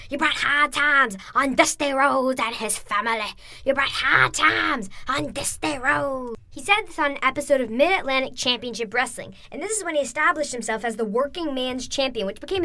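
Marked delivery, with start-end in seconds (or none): 0.1-6.4 slow, drawn-out Dusty Rhodes impression; imitating Dusty Rhodes. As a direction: stretch each word like a weary preacher. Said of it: "When he went".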